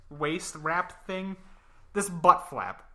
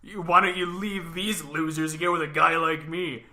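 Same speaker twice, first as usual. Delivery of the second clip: put-on drunk dude voice; 4 dB louder than usual. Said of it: "some drunk dude comes up and he's like".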